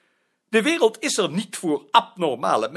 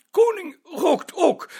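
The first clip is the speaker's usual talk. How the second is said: defensive protest; 10 semitones higher, 5 dB louder than usual. Acted. Director defends smoking, voice cracking.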